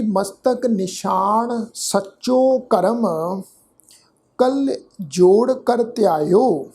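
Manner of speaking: slow, measured recitation of the verse; scripture recitation. Acted. Teacher recites the Gurbani verse for the sangat, slow and measured. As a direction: intone each word of the hymn evenly.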